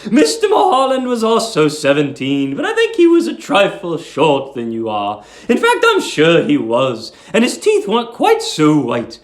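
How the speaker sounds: put-on high, fussy voice of a sweet old landlady. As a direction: coo it like a doting old landlady.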